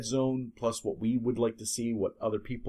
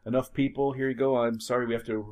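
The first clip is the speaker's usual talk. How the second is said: raised, fussy official voice; officious bureaucrat; 4 dB louder than usual. Pretend. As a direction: play a petty official reading out orders. Acted bureaucrat commandeering the vehicle.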